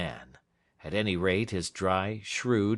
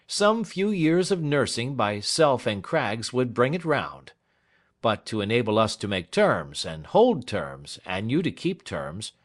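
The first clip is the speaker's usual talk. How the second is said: higher and louder, shrewd and businesslike; a lawyer laying down advice; dry lawyer Snitchey; 4 semitones higher, 5 dB louder than usual. Acted. Snitchey's voice in dialogue.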